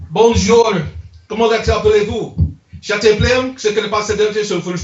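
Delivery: put-on French for the crowd; French showpiece. Shown as a demonstration. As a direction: show off some French. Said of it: "That's French".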